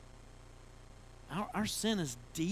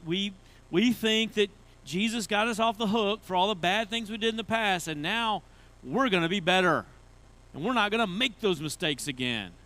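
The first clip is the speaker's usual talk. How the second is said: louder, higher, overconfident resolve; mock self-assurance; 3 semitones higher, 5 dB louder than usual. Preacher voicing believers who trust their own efforts, mock self-assurance. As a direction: rattle off big resolutions with mock zeal.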